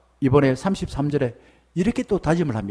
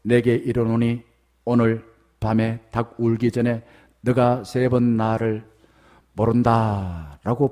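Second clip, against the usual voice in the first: lower, measured, cool prophecy; cold, stern; 9 semitones lower, slower than usual. Acted. Jesus coldly telling Peter he will deny him. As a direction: say it coldly, without warmth. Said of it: "냉정하게".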